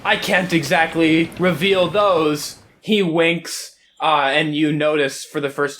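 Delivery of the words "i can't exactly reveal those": posh captain. Acted. Captain voice, chap.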